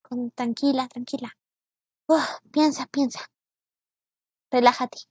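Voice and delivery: low, soft self-talk; soothing herself. Real, not acted. Frustrated gamer calming herself down, hushed and low. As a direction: talk yourself down, quietly.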